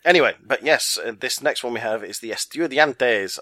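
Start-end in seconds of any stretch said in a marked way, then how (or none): 2.3-3.4 light put-on Mexican accent; a playful hint of Mexican accent. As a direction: give it a generic Mexican-style South American accent. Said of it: "I said that in a Mexican accent".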